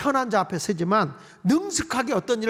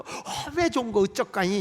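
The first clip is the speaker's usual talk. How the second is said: playful Jeolla regional lilt; Jeolla dialect. Acted. Believer delighted at God's name, in Jeolla dialect. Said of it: "어, 전라도 버전".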